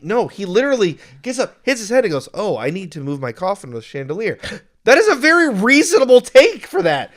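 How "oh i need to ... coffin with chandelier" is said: imitating deadpan statement of fact; dead serious. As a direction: say it straight, no joke in it. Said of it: "He says it so seriously".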